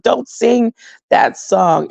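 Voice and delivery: slowly pleading, imitating near tears; mock tearful plea. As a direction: draw out the plea, mildly hammed-up. Repeats her tearful plea, drawn out.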